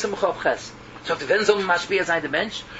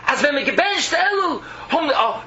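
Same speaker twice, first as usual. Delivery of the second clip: raised, higher-pitched imitation of a crying preacher; imitated crying scream; 4 semitones higher, slower than usual. Rabbi crying out to his congregation in Elul, imitated scream. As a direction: cry it out like an impassioned rabbi. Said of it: "cry and scream".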